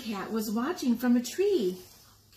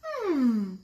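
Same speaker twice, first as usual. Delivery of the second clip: purred hmm; 5 dB louder than usual. Acted. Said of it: "purred the cat".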